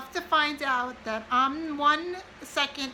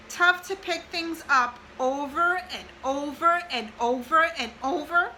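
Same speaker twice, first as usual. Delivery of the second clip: each "over" lifted higher and louder, building; emphasis on over; 3 semitones higher, 3 dB louder than usual. Real, not acted. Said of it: "I have over written really high and really big".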